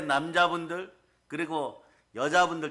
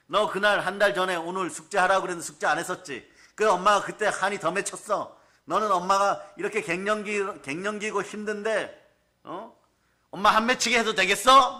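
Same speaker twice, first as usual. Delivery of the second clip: higher-pitched mock tirade of a mother; angry scolding; 4 semitones higher, 4 dB louder than usual. Menopausal mother berating her child over old homework, acted angry scolding. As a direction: scold your child, building to a loud, high final question. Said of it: "막 갑자기 야단 쳐버려요".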